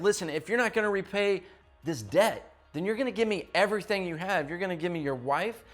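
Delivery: fast, pressing demand of an angry king; furious king. Retold or imitated. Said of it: "he's just furious at him and he's so angry".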